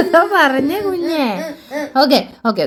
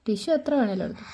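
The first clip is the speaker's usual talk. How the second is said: whispered aside; 4 semitones lower, 11 dB quieter than usual. Real, not acted. Mother whispering about the tissues. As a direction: whisper it under your breath.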